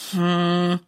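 tiefes, kurzes Brummen. A narrator's reading. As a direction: ein mürrisches Hm, leicht tiefer. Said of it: "brummt Silas nur". (Silas brummt auf Mamas Frage, mürrisch)

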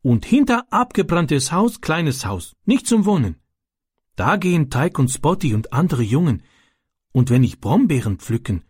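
höhere, langsame Stimme eines schüchternen ausländischen Jungen; Ram, ausländischer Junge. A narrator's reading. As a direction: ein kleiner Junge, der stockend in gebrochenem Deutsch erzählt. Ram, foreign boy, broken German. (kindlich hoch und zögernd, Ram erzählt Francis von den Jungen)

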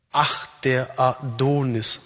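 "Ach, der Adonis" slowly, stressing "Ach" and the "do" of "Adonis"; scanned verse metre. Shown as a demonstration. Speaker shows the Adonic verse, "Ach, der Adonis" slowly scanned by stresses. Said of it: "Betont, unbetont, unbetont, betont, unbetont".

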